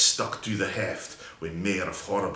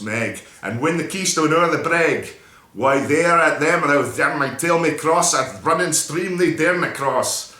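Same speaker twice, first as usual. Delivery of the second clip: frantic warning; 6 semitones higher, 6 dB louder than usual. Acted. Frantic chase to the bridge.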